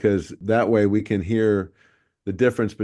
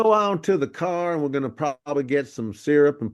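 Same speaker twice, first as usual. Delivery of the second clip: Texas drawl; 4 semitones higher than usual. Shown as a demonstration. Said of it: "a little bit of a syrup on it".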